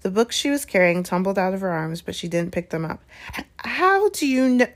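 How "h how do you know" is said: higher, stammered shocked question; splutter, tripping on the first word. A narrator's reading. McGonagall hears of the Stone, shocked splutter. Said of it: "she spluttered".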